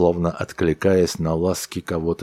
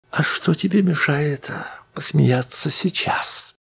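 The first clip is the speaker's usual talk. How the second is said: yawning; 11 semitones higher than usual. A narrator's reading. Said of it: "широко зевнув".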